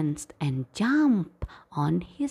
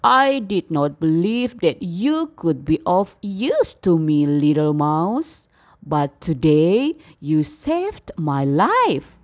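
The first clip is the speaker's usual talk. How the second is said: lower, grateful, a bit louder; humble lion; 3 semitones lower, 5 dB louder than usual. Acted. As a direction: thank the little mouse sincerely. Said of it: "said the lion humbly".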